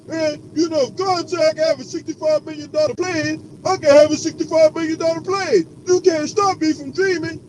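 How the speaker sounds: lightly voiced smug preacher; mocking preacher. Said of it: "Creflo Dollar went on that dang old diatribe".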